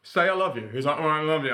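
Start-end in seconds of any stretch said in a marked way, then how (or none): 0.0-0.7 high, loud string of protests; mock-exasperated insisting; insistent retold demand. Acts out insisting to dad. 1.0-1.5 improperly said, higher and louder brush-off; grudging retold reply. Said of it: "say it properly".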